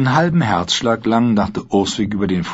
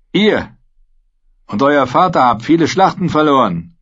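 higher, scornful mercenary voice; Dornish sellsword; 7 semitones higher, 4 dB louder than usual. A narrator's reading. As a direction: jeer at the captive knight.

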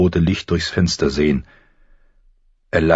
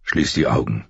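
low, gently lowered voice; gentle; 5 semitones lower than usual. A narrator's reading. Son telling his exhausted mother to rest, gentle. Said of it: "sagte er sanft".

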